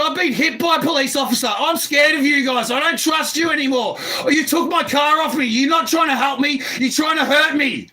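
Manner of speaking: real, worked-up tirade; agitated accusation. Real, not acted. Scared man accusing police of hurting him, agitated accusation. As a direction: fire off distrustful accusations at full voice.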